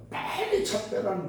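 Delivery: imitating a brusque Jeolla dialect caller; retold demand with a Jeolla lilt; lightly imitated Jeolla dialect; Jeolla dialect retelling. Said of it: "전라도 사투리로 막".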